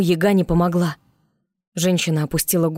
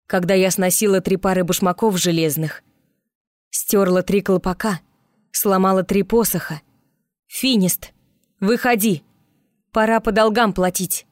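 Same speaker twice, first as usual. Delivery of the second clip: triumphant; 3 semitones higher than usual. Acted. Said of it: "торжествующе произнесла Марьюшка".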